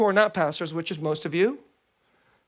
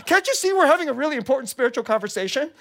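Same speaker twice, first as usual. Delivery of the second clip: retold indignant scolding; 6 semitones higher, 3 dB louder, faster than usual. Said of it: "She says".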